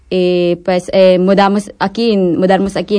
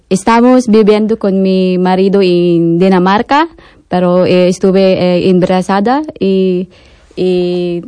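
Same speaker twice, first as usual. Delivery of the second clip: Spanish with a Filipino accent; non-native Spanish with a Filipino accent. Real, not acted. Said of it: "mi español no está bueno".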